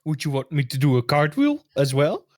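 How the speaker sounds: sarcastic offer, lifting at the end; dry sarcasm in character. Acted. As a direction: ask it as a mock-helpful question. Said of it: "That was sarcastic".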